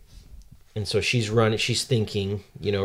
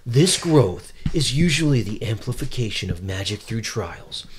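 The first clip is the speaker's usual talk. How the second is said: dramatic narrator. Acted. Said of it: "so the narrator says".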